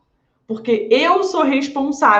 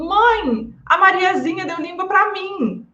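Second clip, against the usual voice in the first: put-on higher, whiny child complaining to mom; a small daughter tattling through tears, pitched up; upset little girl; 6 semitones higher, slower than usual. Child telling mom about the girl who stuck out her tongue, whiny. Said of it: "super chateada".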